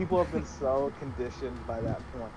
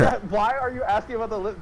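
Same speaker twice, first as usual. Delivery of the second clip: exasperated louder; 11 semitones higher, 10 dB louder than usual. Real, not acted. Friends mocking the game dialogue.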